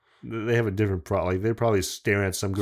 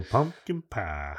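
slow, drawn-out Southern "pie"; Southern accent; 5 dB quieter, much slower than usual. Retold or imitated. Friend mimicking the voice on the walkie-talkie, Southern accent. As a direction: say it with a Southern drawl. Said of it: "a Southern accent".

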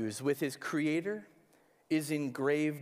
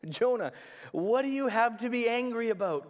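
gentle voice of God, a touch higher; 5 semitones higher than usual. Retold or imitated. God gently questioning the angry Jonah, lightly voiced. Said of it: "God gently asks Jonah".

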